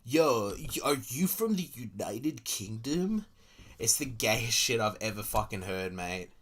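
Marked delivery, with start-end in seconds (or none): 0.1-3.2 drawn-out American voice with a rising question; a lightly mocking American asking where you're from; mock American accent. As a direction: slowly ham up a dumb American tourist. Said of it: "'cause they're like".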